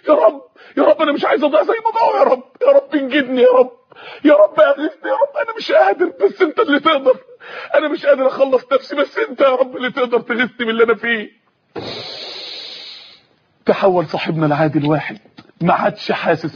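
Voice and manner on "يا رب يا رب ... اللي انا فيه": crying prayer. Acted. Tearful prayer in story.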